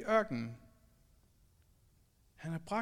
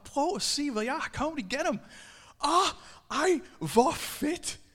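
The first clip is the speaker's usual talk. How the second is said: higher, louder gushing brag; a mild mock show-off; boastful excitement; 6 semitones higher, 4 dB louder than usual. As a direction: show off what you achieved. Proud person boasting at peak.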